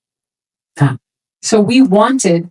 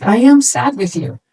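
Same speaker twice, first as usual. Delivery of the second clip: sympathetic. Retold or imitated. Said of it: "match the energy".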